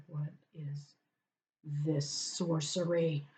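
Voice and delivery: hushed, slow baffled cat voice. Pretend. Voicing the baffled cats.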